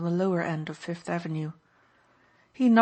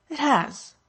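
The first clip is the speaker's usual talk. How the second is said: sharp, much higher and louder; curt, irritated snap; snapped; 8 semitones higher, 6 dB louder than usual. A narrator's reading. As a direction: bite the words off. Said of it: "she snapped".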